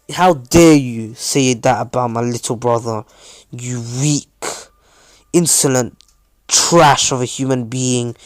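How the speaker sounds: controlled outrage, stressed insults; angry rebuke. Acted. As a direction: defend a little brother with some force. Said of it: "he starts swearing".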